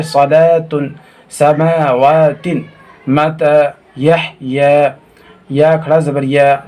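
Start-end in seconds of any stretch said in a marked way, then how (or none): 0.0-5.0 सलातुन, समावातिन with long vowels held; joined-up reading. Shown as a demonstration. Teacher showing how joined letters read, समावातिन with stretched vowels. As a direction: draw out each long aa in समावातिन. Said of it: "मिलाएंगे तो ऐसे पढ़ेंगे".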